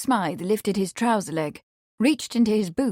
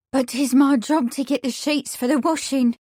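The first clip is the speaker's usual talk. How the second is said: put-on high, pleading young maid's voice; desperate maid; 5 semitones higher, 3 dB louder than usual. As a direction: beg like a frightened servant girl. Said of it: "she replied desperately".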